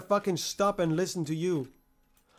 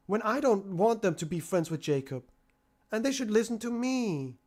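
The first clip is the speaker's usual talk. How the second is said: a bit higher, lightly voiced sulky kid; mock sulk, higher and petulant; mocking whiny voice; 4 semitones higher than usual. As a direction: whine it like a spoiled child. Mocking Dave's inner voice.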